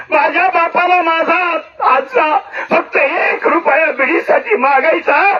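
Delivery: choked crying plea, slow; tearful outcry. Acted. Grandson pleads with grandmother, crying over his grandfather. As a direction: let the voice break as he pleads.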